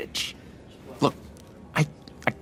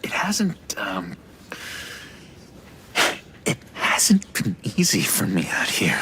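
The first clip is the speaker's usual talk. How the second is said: whisper. Acted. John confiding in hushed voice.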